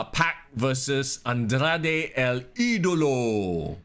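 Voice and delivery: slow ring-announcer call, last name stretched out; drawn-out mock ring introduction; match announcer. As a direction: announce the names slowly, holding the final vowel.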